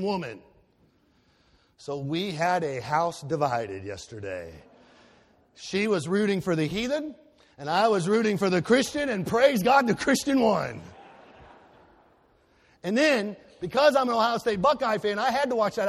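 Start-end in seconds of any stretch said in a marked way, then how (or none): 5.5-10.8 rising to a cheer over the win; triumphant. Real, not acted. Preacher to congregation, jubilant cheer. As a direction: crow about the victory.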